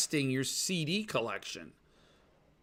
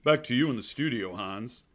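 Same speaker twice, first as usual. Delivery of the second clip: newscaster voice; 4 semitones lower than usual. Pretend. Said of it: "I'm working on my newscaster voice".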